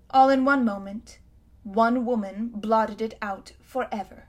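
a haughty queen remembering her city's might; lightly voiced imperious queen; proud queen. Queen boasts of destruction.

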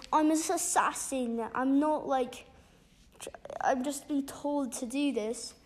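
lightly put-on British accent; a hint of an imitation British accent. Storyteller voices the assassin from the audiobooks, light mock British accent. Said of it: "I'm gonna just do a British accent".

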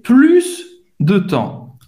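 PLUS slowly, with a hissed final S; final S pronounced. Shown as a demonstration. Teacher correcting a forgotten letter, S sounded in PLUS. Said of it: "Ela esqueceu de falar o S".

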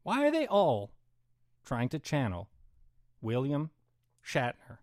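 lightly hammed Shatner-style pauses on every phrase; halting, dramatic news anchor delivery; mock reporter cadence. Shown as a demonstration. Ranting podcaster mocks reporters with a mild Shatner pause cadence. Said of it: "The way reporters talk".

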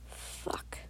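very soft whispered curse; voiceless, barely audible aside to oneself; inner thought. A narrator's reading. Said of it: "you think to yourself".

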